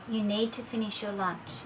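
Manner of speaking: firm but unruffled, no reaction; calm, even voice. Shown as a demonstration. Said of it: "a very calm, even voice".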